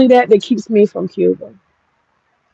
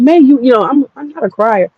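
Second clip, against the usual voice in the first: scolding herself; 3 semitones higher than usual. Retold or imitated. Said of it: "I said".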